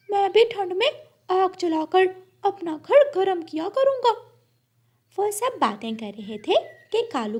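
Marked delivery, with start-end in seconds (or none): 0.1-4.1 much higher chirpy parrot; high bird voice. Acted. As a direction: squeak it like a little parrot.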